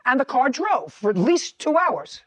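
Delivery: slow, pointed courtroom questioning; tv judge. Real, not acted. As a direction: lay out the point like a stern judge. Judge cross-examining the defendant.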